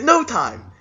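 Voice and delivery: very high-pitched, expectant catchphrase; imitated hopeful call. Man waiting for friends to high five, mock eager high call.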